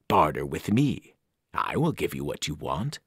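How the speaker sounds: tempting from the abyss; cold ancient voice. Acted. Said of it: "The voice felt ancient, cold, and heavy".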